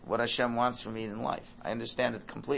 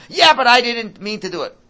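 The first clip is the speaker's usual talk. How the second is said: put-on whiny child; 14 semitones higher, 17 dB louder than usual. Kid's excuse voiced.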